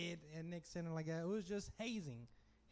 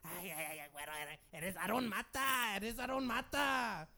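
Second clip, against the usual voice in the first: mocking classmate; 3 semitones higher than usual. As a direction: drag out the name to tease.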